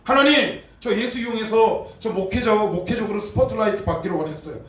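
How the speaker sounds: high, loud, pleading cry to God; anguished confession. Pretend. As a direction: pour out a desperate confession. Acted confession prayer to God. (높고 크게 절박하게 고백하는 기도)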